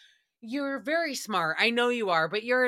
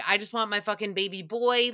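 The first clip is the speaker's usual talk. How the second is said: mock desperate wail; faster than usual. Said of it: "he basically said".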